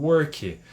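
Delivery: "work" said as "orki", Brazilian-style; Portuguese O in "work"; "work" with O sound. Shown as a demonstration. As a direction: round the vowel of "work" to O and add "ki". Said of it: "com som de O".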